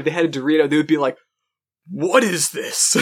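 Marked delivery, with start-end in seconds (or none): 1.9-3.0 slow, drawn-out awe; hammed-up bewilderment; mock astonishment. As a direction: play someone stunned by a first taste. Imagined 1800s person tasting Dorito.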